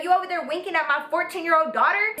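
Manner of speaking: fast, high-pitched mock confrontation; retold angry yelling. Mom accusing the teacher over her daughter, mock yelling. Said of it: "my mom started yelling".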